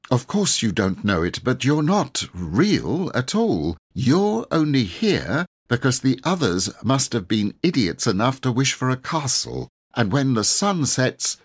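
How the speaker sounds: desperate. A narrator's reading. Robert telling the knight he is not real, desperate. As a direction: blurt out the truth like a cornered lad. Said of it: "said Robert desperately".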